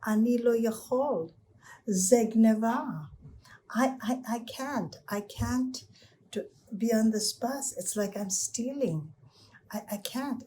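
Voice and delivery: put-on a distraught boy who can't ride for free; devastated boy. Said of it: "the boy is devastated".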